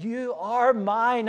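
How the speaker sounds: slow, gentle You are mine; tender claim. Acted. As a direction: say it like a parent to a child. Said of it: "the language that a parent might use of a child".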